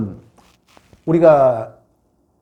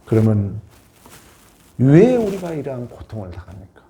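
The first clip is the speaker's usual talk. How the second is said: ordinary talk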